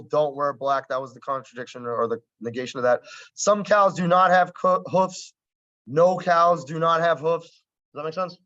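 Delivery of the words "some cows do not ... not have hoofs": slow, louder, spelling out "No cows do not have hoofs"; worksheet phrasing. Shown as a demonstration. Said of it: "the way they did it on the worksheet".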